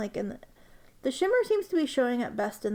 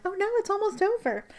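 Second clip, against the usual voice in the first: high, louder hammed-up wail; mock dismay; 10 semitones higher, 5 dB louder than usual. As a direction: cry out in playful fake despair. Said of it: "I'm like".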